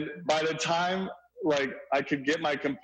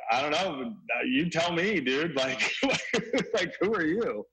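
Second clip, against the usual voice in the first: mock-sarcastic, half laughing; 3 semitones higher than usual. Neighbor retelling his reply to Brady, light sarcasm. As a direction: throw it back at him with a smirk. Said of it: "like, sarcastically".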